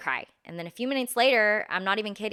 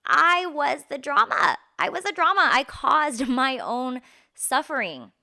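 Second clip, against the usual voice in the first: higher and louder, laughing at herself; laughing admission; 6 semitones higher, 7 dB louder than usual. Real, not acted. Admitting she caused her own drama, laughing.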